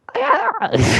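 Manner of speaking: very high-pitched mock cackle; imitated Joker laugh. Waking Joker among his gang, high mock laugh.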